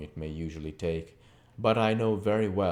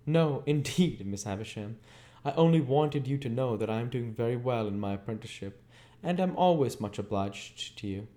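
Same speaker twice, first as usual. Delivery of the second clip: lightly voiced eager boy, a bit higher; polite young Pip; 6 semitones higher, 3 dB louder than usual.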